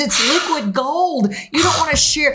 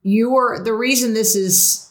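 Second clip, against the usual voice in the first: a hint of a calm, measured counselor, pitched a bit lower; therapist voice; 4 semitones lower than usual. Host puts on her therapist hat for her guest, lightly calm counselor voice. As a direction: lightly play the therapist laying out her insight. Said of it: "So my therapist hat says".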